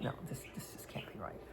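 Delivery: low, hushed thought to oneself; quiet, half-voiced private doubt; muttered disbelief. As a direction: drop to a near-whisper, retelling a doubting thought.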